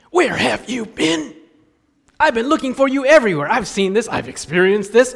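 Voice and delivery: put-on exasperated parent finding a lost child; frustrated parent. Parent who searched the mall, mock scolding. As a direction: scold the kid you finally found. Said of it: "from relief to frustration".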